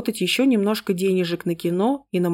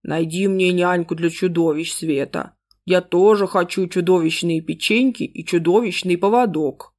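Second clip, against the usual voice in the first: gurgle it out like a soggy beast; gurgling monster voice. Acted. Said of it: "Туша открыла мутные чёрные глаза и пробулькала".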